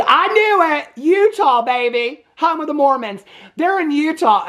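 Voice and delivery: triumphant excitement. Real, not acted. Telling viewers the detour was Utah, triumphant crowing. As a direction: gloat that you called it. Crowing over guessed plot twist.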